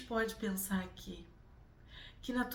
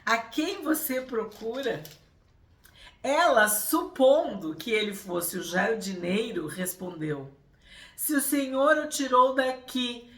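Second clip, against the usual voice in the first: scripture reading; 3 semitones higher, 9 dB louder than usual. Acted. Reads the Gospel passage aloud.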